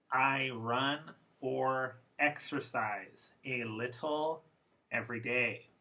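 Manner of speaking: slow, careful formal English. Shown as a demonstration. Teacher reading the formal version slowly. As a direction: say every word fully and slowly. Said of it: "Once formal".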